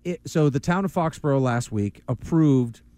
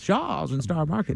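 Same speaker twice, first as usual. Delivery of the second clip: slow, higher-pitched announcer impression; mock sponsor read, drawn out and raised; Castiglione; 4 semitones higher, slower than usual. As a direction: stretch out the sponsor name like a sportscaster. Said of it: "do I have to say it like Castiglione?".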